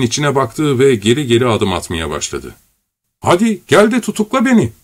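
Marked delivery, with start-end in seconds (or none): 3.2-4.7 high wild shriek. A narrator's reading. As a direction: scream it madly. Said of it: "diye bir çığlık kopardı Korotkov".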